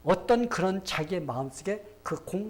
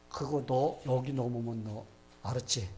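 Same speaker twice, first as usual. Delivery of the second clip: mock child's threat; 3 semitones lower than usual. Child warning desk partner.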